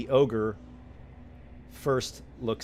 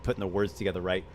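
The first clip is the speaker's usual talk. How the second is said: normal talking voice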